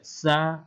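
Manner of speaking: "Sa" with tongue tip against upper teeth; touch tongue to top teeth and say "Sa". Shown as a demonstration. Teacher showing where the letter sits, tongue-tip "Sa". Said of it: "Di ujung lidah dirapatkan".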